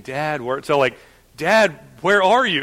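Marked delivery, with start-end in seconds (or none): 0.0-0.6 lightly imitated child's easy call; mock playful calling, no urgency. Toddler enjoying hide-and-seek with dad, playfully calling. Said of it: "playfully laughing". 1.4-2.6 higher, imitated anxious call; mock a child's worried cry for dad; scared child. Toddler who can't find hiding dad, calling out scared. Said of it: "He's scared".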